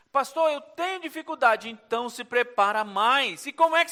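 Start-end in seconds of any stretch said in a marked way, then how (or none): 0.1-1.7 whiny congregant. Retold or imitated. Congregant voiced again, louder.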